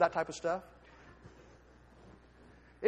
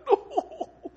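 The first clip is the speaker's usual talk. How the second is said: a high no through laughter; laughing no; 4 dB louder than usual. Real, not acted. Preacher laughing at his own joke, high. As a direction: laugh the word out.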